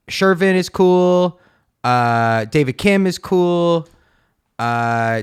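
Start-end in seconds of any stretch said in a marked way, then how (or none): 0.1-1.4 emphatic. Real, not acted. Emphatic endorsement of candidates. 2.5-3.9 emphatic. Real, not acted. Emphatic endorsement of candidates.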